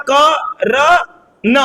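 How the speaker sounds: क र न spaced apart, न left clipped with no अ; syllable by syllable. Shown as a demonstration. Teacher sounding out the name for students. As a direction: spell out क र न with no vowel on न. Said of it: "last में अ नहीं है".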